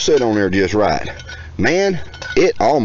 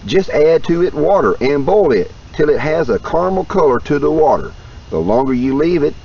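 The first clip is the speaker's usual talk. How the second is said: reading aloud. Real, not acted. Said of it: "You can tell I'm reading".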